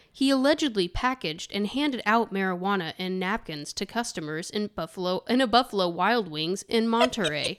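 news anchor delivery; newscaster voice. Shown as a demonstration. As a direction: read it like a TV reporter. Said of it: "that's my newscaster voice".

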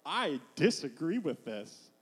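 slow, drawn-out mock objection; mock contempt. Goliath objecting to David as opponent, mock contempt. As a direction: stretch it out in mild disdain. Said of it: "he's holding him in contempt".

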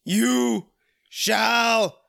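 shouting. Acted. Acted wizard line shouted.

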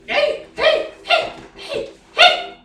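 high loud calls of hey; calling out. Acted. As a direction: yell hey hey to get attention. Calling out to Zane.

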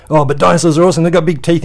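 high, loud gushing fan voice; mock kid excitement. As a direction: squeal it like an eager kid. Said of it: "you can go".

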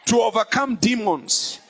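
rising preacher's cadence; preaching. Real, not acted. Preacher to congregation, preaching in earnest. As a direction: preach it with full force. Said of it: "I feel like preaching".

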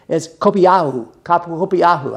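kopiahu sounded out carefully, syllable by syllable; Greek word kopiahu. Shown as a demonstration. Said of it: "I sound like Hawaiian instead of speaking Greek".

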